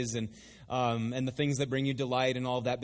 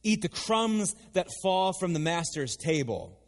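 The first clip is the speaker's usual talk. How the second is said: indignant woman; 3 semitones higher than usual. Acted. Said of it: "she says".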